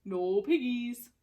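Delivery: slow, lowing cow voice. Acted. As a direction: moo it out dully. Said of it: "mooed the cow".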